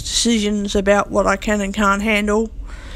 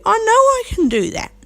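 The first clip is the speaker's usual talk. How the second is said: much higher, insistent pitch; emphatic insistence; 12 semitones higher than usual. Real, not acted. Speaker insists they could talk nicely, emphatic and high. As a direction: push back with the pitch leaping up.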